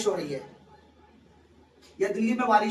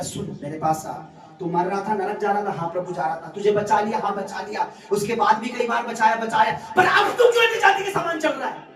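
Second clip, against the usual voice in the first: voice of God. Retold or imitated. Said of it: "परमेश्वर कहता".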